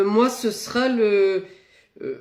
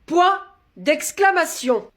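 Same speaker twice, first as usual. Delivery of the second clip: slow dictation; 7 semitones higher, much slower than usual. Shown as a demonstration. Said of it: "dictating punctuation".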